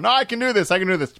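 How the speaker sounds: mock brave self-talk. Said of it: "hanging out my window going".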